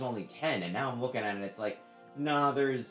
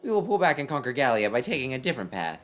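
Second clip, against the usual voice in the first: cool voice of an enemy commander; stern commander voice; 4 dB louder, faster than usual. Acted. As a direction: question the report coldly. General pleads.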